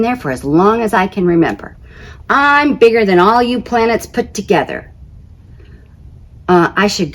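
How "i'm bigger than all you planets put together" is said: boastful Jupiter. Acted.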